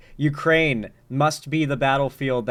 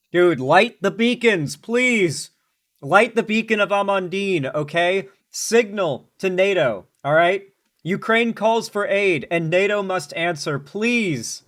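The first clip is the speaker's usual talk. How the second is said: urgent pleading; 4 semitones higher than usual. Real, not acted. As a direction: plead like the beacons must be lit now. Begging NATO to light beacons.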